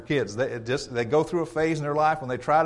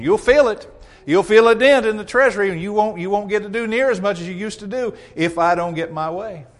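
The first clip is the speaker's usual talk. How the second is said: higher, louder warning; mock threat; 4 semitones higher, 5 dB louder than usual. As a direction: lean on them with the threat. Acted member continues threat.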